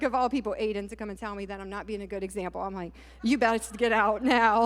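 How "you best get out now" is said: slow, louder retold warning; stern mock order. Mother to son who criticised her, mock stern. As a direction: order your son out, drawing it out.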